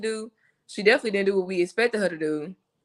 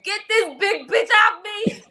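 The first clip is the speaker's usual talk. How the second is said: high, frantic mock scream; high-pitched hypothetical outburst, played for laughs; screaming to get free; 12 semitones higher, 4 dB louder than usual. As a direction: pretend to scream for someone to get off you. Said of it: "definitely would have been screaming".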